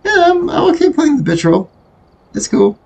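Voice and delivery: high, whiny fake sob; hammed-up crybaby voice; mock crying. Mock whining about his weak role.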